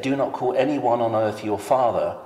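ordinary delivery

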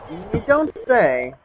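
slow, dry sarcastic drawl. Real, not acted. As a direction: say it with heavy sarcasm. Sarcastic reply to dark castle.

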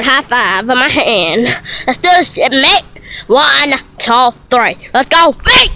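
playful mock-British chatter; put-on British accent. Vlogger announcing a bike stunt, mock British. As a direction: keep up a fake British accent. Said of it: "that's my accent right there".

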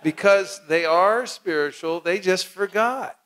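slow, laughing through the words. Real, not acted. Teacher to seminar audience, slow and laughing. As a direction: chuckle it out slowly. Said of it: "laughing while explaining".

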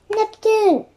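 high-pitched exclaimed name; awed cry. A narrator's reading. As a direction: cry out at a towering sight. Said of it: "cried Annie".

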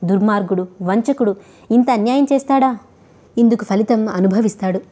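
ordinary delivery, nothing marked

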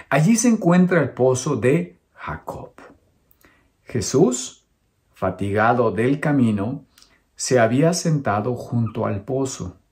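measured scripture reading with deliberate pauses; lectura bíblica en voz alta. Acted. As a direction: read it out phrase by phrase, pausing between them. Lee el pasaje bíblico en voz alta. (lectura pausada de la Biblia)

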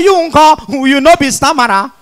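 comic stammerer blurting his way to a word; hooting false starts, then the word breaks free; stammering. Acted. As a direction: act out a chronic stammer. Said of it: "the first stammerer come dey answer am".

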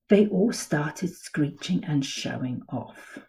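lively picture-book read-aloud; storybook voice for kids; reading to children. A narrator's reading. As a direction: tell it like a bedtime story to little ones.

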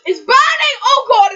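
high loud laughing yell; laughing shout. Real, not acted. Sour candy burning mouth.

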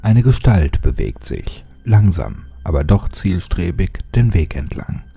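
dark, measured storytelling voice; horror story narration. A narrator's reading. Narrator reading a horror creepypasta to his viewers in a dark tone. Reads creepypasta over music.

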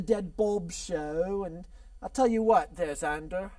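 lingering mock English accent; half-kept fake English accent; bad English accent. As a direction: keep up a poor English accent. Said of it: "let me get rid of this accent".

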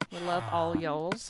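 Southern twang on "all y'alls"; southern accent. Shown as a demonstration. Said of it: "We bring out my southern accent".

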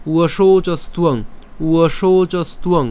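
slow, linked "উয়শৌচস্তুয়ং"; repeat-after-me demonstration. Shown as a demonstration. Teacher leading learners along, slow connected "উয়শৌচস্তুয়ং". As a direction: draw out "উয়শৌচস্তুয়ং" without breaking it. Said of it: "আমার সাথে সাথে উচ্চারণ করেন".

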